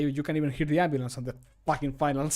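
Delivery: ordinary talk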